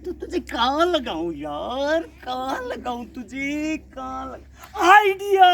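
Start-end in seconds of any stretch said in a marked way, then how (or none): 4.8-5.5 higher, louder eureka; excited aha; sudden idea. Acted. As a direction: burst out with the idea. Suddenly thinks of a spot.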